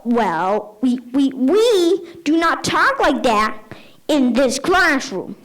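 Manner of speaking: stammering, slowing at the end; flustered teacher. Retold or imitated. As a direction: fumble for authority and fail. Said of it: "I was like".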